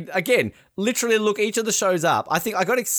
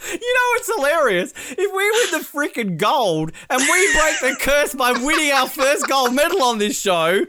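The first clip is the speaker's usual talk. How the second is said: excited; 10 semitones higher, 4 dB louder than usual. Real, not acted. Excited about winning gold.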